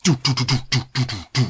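high, excited chant of a discovery; excited sketch character. Retold or imitated. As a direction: announce it like a wide-eyed revelation. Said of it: "and they're going".

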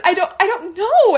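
high, giggly "I don't know"; laughing. Retold or imitated. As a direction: shrug it off through laughter. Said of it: "And I'm laughing".

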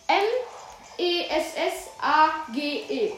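corrected spelling, letter by letter. Shown as a demonstration. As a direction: spell it out again carefully. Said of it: "ich sag's nochmal".

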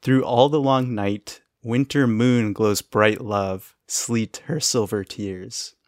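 slow, measured poem reading; poem recital. Shown as a demonstration. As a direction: recite it like a haiku. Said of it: "the line he hears the woman saying".

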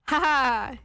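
stilted email "ha ha"; spoken written laugh. Acted. Reading her email to co-host, spoken written laugh. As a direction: say the laugh as typed words. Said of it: "You did not go, "Ha ha".

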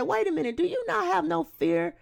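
high, loud, outraged challenge; indignant rebuke. Acted. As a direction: rebuke him hard, voice climbing to an appalled peak. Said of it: "The other criminal responded for him".

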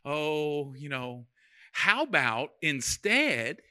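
soft, tender wife's coaxing; loving and gentle. Retold or imitated. Wife gently steers her hungry husband, soft and tender. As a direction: hush it down like a loving wife soothing. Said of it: "she'll be loving".

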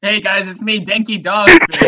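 bad imitation of a fellow player's accent; Denki Dogfish. Impostor fish greets the gang, terrible imitated accent. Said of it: "That is a terrible impersonation of my accent".

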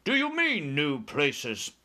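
indignant shout. A narrator's reading. Air Force chief challenging his cheerful pilot, indignant shout. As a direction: explode in indignant disbelief. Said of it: "shouted the head of the Air Force".

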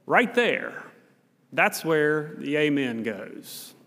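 slow, drawn-out cue to the congregation; lightly voiced Baptist preacher; imitating a preacher. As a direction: point at them and wait for the amen. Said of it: "he would say".

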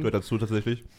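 talking through a bite of sushi; words round a mouthful of food; mouth full. Real, not acted. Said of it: "Kannst ruhig mit vollem Mund reden".

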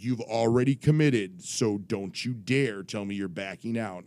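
lightly imitated stern warning; a hint of a scolding official; authoritative commissioner. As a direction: warn off a would-be quitter, imitating. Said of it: "I'm doing his voice".

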